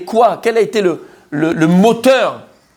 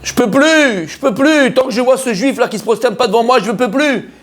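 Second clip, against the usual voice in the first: Haman complaining; 3 semitones higher than usual. Acted. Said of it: "Qu'est-ce qu'il a dit?".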